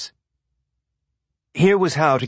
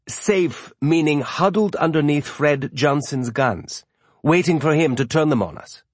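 wary older sailor voicing distrust; gruff skeptical man; 4 semitones higher than usual. Narrator voices Bertold, skeptical.

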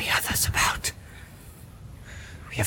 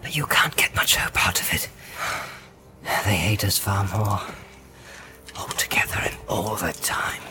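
hushed Frodo whisper; 9 dB quieter than usual. Acted. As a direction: whisper urgently while hiding. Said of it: "Frodo whispered".

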